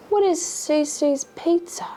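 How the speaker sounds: slow, puzzled question; high, drawn-out what; baffled disbelief. Real, not acted. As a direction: ask it like you can't believe it. Baffled at the date spot.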